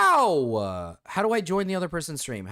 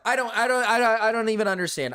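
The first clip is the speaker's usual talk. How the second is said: fast, laughing confusion; laughing disbelief; 5 semitones higher, 3 dB louder, faster than usual. Real, not acted. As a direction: laugh through the words. Laughing bewildered reaction.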